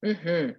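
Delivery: mm-HMM, a small even hum; "mm-hmm" with the weight on the second half; last-syllable stress. Shown as a demonstration. Teacher demonstrates a yes sound, mm-HMM stressed last. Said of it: "emphasis is on the last syllable".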